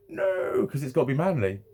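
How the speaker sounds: a quick, high protesting no; sharp high no. Retold or imitated. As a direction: cut it off fast and high. Instant refusal, high pitch.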